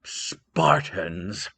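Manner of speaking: a father overjoyed at peace; King Priam overjoyed. Acted. Priam to his son, high joyous news. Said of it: "and he said".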